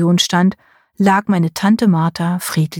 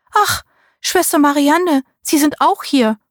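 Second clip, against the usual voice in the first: delighted greeting; 8 semitones higher than usual. A narrator's reading. Aunt delighted to see nurse.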